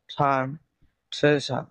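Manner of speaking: "টার্ম, ট্রেজার" with a puffed T; aspirated T. Shown as a demonstration. Teacher giving T examples, puffed "টার্ম, ট্রেজার". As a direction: release breath on the T of "টার্ম, ট্রেজার". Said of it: "ফ এর মতো উচ্চারণ হবে".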